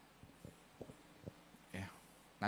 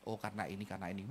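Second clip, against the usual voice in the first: calm explaining; 11 semitones lower, 14 dB quieter, much faster than usual. Retold or imitated.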